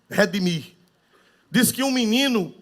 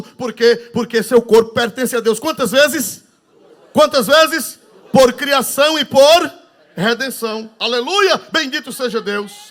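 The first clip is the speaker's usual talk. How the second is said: higher, louder, exultant pulpit rhythm; preaching at full force; 5 semitones higher, 7 dB louder than usual. Acted. Pastor leading the congregation in praise, exultant preaching. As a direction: rouse the church to praise.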